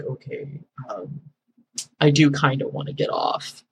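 very soft, low, hesitant; sheepish giving in. Retold or imitated. Caller after an hour of pranking gives in, sheepish. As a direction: imitate a caller quietly admitting it. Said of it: "he would break".

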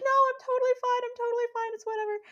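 very high, squeaky tearful imitation; hammed-up crying voice, brushing off concern; mock sobbing. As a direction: insist through pretend sobs. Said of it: "in full sobs at this point".

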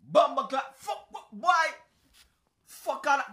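loud, high Jamaican patois outburst; hammed-up Jamaican exclamation; yelling in Jamaican patois; Jamaican accent. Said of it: "I'll stop my accent now".

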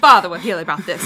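bad Draco voice. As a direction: botch a snooty Malfoy line for laughs. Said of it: "I don't know if that was Southern or British".

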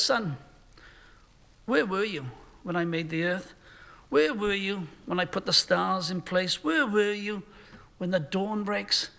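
kind and intimate, no anger; loving fatherly tone. Shown as a demonstration. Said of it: "A loving, kind, compassionate, personal, intimate tone of voice".

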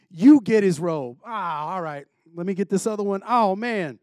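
casual street-game banter, barely acted; hint of soldiers shooting craps under the cross; lightly voiced dice-playing soldier. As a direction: toss off the lines like a guy at a dice game.

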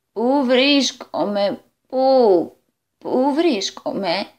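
slow, dazed drawn-out question; utterly bewildered. Acted. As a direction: stretch each word as if lost. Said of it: "έμοιαζε να τα έχει εντελώς χαμένα". (σαστισμένα, αργά και τραβηγμένα)

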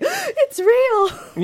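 high gasping cry of wonder; amazed exclaim. Retold or imitated. Recalling her first Disneyland visit, high amazed exclaim. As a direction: burst out in childlike amazement.

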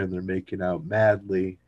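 ordinary talk

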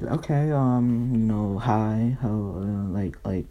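slow, hesitant awkward reply; Joanna. Acted. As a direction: stall uneasily before an odd neighbor. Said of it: "Joanna's like".

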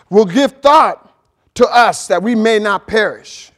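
emphatic pulpit reading; scripture reading. Acted. Preacher reading Jonah to the congregation, emphatic scripture reading. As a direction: read the verse out firmly, weighting key words.

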